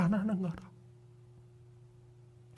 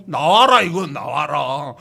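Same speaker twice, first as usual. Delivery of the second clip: mock shout; 3 semitones lower, 9 dB louder, slower than usual. Mother eagle shaking the nest.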